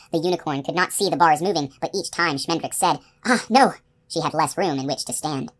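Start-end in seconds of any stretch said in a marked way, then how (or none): 3.2-3.7 higher, mildly alarmed exclamation; dismayed cry. A narrator's reading. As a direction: let out a small cry of dismay. Spell goes wrong, magician cries out.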